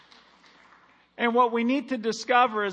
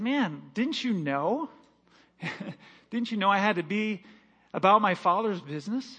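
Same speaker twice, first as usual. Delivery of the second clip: put-on calm young Jesus. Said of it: "he said".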